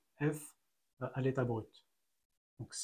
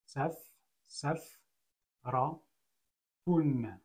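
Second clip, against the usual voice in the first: syllable by syllable; much slower than usual. Shown as a demonstration. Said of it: "Donc si je lis".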